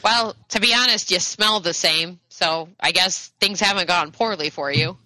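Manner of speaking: a hint of a frank old lady; candid old lady.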